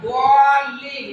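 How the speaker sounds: long, slow "দোয়ালিন" with a full, heavy D; heavy Arabic Dad. Shown as a demonstration. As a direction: stretch "দোয়ালিন", opening on a rounded "দোয়া". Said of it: "এ কথা হবে কি না". ("দোয়ালিন" টেনে, পূর্ণ মোটা দোয়াদে)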